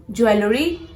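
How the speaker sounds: "Jewelry" as joo-EL-uh-ree, rising; "Jewelry" with every vowel sounded; mispronounced jewelry. Shown as a demonstration.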